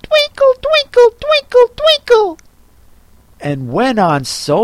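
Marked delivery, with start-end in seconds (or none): 0.0-2.4 very high, loud sing-song squeak; a dozing squirrel squeaking a tune; squeaky sleepy squirrel. Acted. Squirrel squeaking a song to the tea party.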